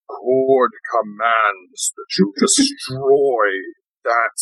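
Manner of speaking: slow, commanding god voice; booming voice. Acted. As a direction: boom it out slowly like a deity. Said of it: "in a booming voice".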